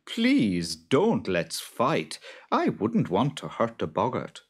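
high, slow worried farmer; Jude's voice. Acted. Jude asking his wife what to do, high and slow. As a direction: ask it loud and fretful.

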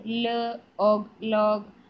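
ല്, pause, ഓഗ്, then whole ലോഗ്; sounding out. Shown as a demonstration. Teacher showing children how to study, sounding out ലോഗ്. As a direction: slowly split ലോഗ് into its sounds, then blend. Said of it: "അങ്ങനെ തന്നെ പറഞ്ഞ്".

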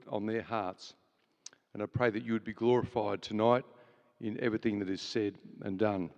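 opening prayer. Real, not acted. Host leads opening prayer.

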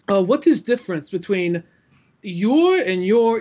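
lightly imitated Russian learner's accent; hesitant questioner with a slight Russian accent; Russian roommate. Russian roommate asking about English, lightly imitated Russian accent. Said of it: "Russian roommate ... still learning English".

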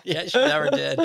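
high, laughing "never"; laughing agreement. Real, not acted. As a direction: echo it through a laugh. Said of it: "laughing repeat".

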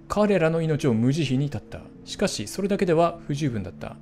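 steady storyteller reading; 物語を語るように朗読; narration read. Acted. Reads ending text aloud.

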